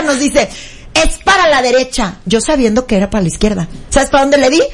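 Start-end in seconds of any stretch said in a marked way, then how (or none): 0.9-2.2 imitating a self-assured declaration; confident assertion. Friend giving driving directions, imitated confident assertion. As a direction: state it firmly, evenly, with total certainty. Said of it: "con su carácter y con todo lo que la caracteriza".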